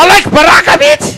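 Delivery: high loud threatening yell; mock threat shout. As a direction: threaten him at full voice. Wife threatening.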